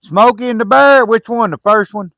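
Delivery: loud, high-pitched puzzled questioning; puzzled surprise. Real, not acted. Puzzled by a misheard title.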